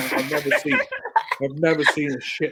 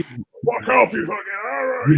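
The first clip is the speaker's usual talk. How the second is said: higher, slow mock Scottish snarl; 8 semitones higher, much slower than usual. Caretaker swearing at taunting kids, mock Scottish. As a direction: snap back as a Scottish caretaker. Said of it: "in Scottish".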